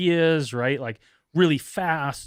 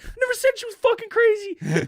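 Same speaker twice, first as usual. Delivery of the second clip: exasperated; 4 dB louder than usual. Retold or imitated. Own exasperated retort.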